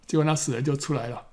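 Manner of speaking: usual speaking voice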